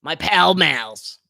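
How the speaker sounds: put-on old lady voice. Brenda voice begs for cigarettes.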